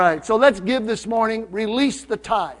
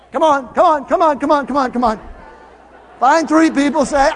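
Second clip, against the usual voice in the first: urging; 5 semitones higher, 5 dB louder than usual. Real, not acted. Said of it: "urging congregation to stand".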